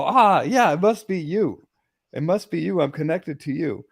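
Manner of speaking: high yelp easing down as it goes; acted-out shocked discovery; retold startled realization. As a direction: cry out, then work it out excitedly. Re-enacts finding who zaps him.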